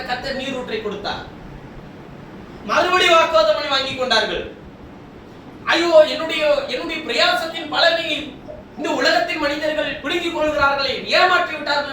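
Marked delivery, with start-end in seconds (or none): 5.7-11.9 preacher imitating a wailed complaint, pitch lifted; mock lament. Preacher voicing Isaac robbed of his labour, mock lament. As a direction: act out a mild protesting lament. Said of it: "அழுது புலம்பிக் கொண்டிருந்தானா".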